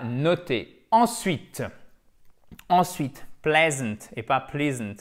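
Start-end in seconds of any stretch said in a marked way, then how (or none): 3.4-5.0 "pleasant" first right, then wrong with a long "plee". Shown as a demonstration. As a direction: contrast the vowel in "pleasant". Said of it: "super important".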